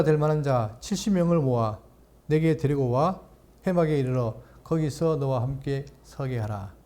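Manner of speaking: measured, solemn Bible reading; scripture reading. Acted. Pastor reading Numbers to the congregation, solemn reading. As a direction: read the verse slowly and deliberately. Reads God's answer.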